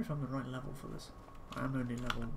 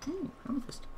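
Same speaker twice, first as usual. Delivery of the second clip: excited; 12 semitones higher than usual. Real, not acted. Finds a gem.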